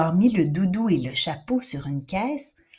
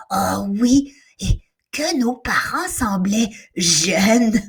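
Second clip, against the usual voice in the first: laughing softly; 2 semitones higher, 4 dB louder, slower than usual. Acted. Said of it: "dit Abel en riant".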